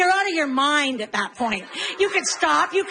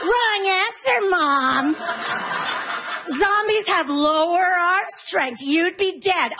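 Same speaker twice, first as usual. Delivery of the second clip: put-on know-it-all kid; 4 semitones higher, slower than usual. Son voiced correcting mom.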